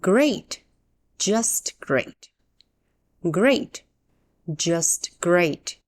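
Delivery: unhappy, insincere praise; mild sarcasm. Shown as a demonstration. English teacher models a complaint, mildly sarcastic. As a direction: say great without meaning it. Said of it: "but you don't really mean it".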